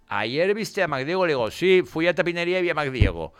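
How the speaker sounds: casual everyday tone. Shown as a demonstration. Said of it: "El tono era el mismo".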